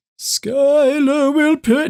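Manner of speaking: very high, floating ghostly voice, drawn out. Narrating a game scene, voicing the Death Knight's threat in a ghost voice. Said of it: "that's like a ghost voice".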